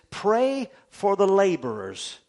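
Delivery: loud, slow, drawn-out scripture command; emphatic preaching. Real, not acted. Preacher quoting the Lord to the congregation, loud emphatic proclamation.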